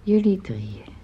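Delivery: soft hushed whisper. Acted. Mother whispering to her son about the dinner for three. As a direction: breathe it out under your voice.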